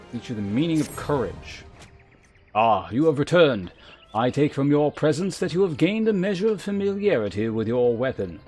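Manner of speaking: formal, measured mentor with deliberate emphasis; lancer guildmaster. Acted. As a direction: instruct a pupil with grave authority. Voices the lancer guildmaster's dialogue again.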